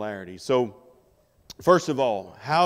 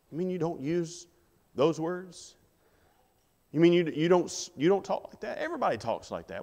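incredulous, higher-pitched questions; mock disbelief; 5 semitones higher than usual. Coworker answering a request about language, incredulous. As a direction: play the baffled coworker, pitch lifted.

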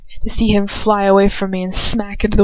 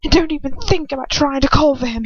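hissed threat; 6 semitones higher than usual. Acted. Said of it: "he hisses".

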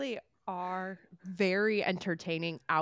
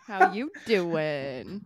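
slow flirty Joey line; drawn-out flirty pickup line, Joey-style; Joey from Friends; 5 dB louder, much slower than usual. Retold or imitated. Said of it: "that's his line".

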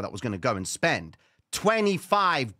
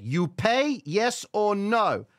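blunt demand; 8 semitones higher, 5 dB louder, much slower than usual. Retold or imitated. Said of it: "she instantly said".

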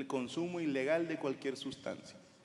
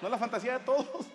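eager pleading; 8 semitones higher than usual. Retold or imitated. Pleading with friends.

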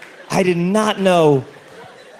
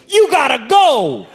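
mock stern order; 8 semitones higher, slower than usual. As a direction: shoo the patient out. Batman ordering him out.

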